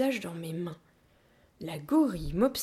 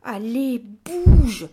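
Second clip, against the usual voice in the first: loud, straining plea, higher pitched; pleading; 4 semitones higher, 13 dB louder, much slower than usual. A narrator's reading. Child pushing a stuck armchair to escape, pleading. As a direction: beg it desperately to move, drawing out the last word. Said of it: "suppliai-je".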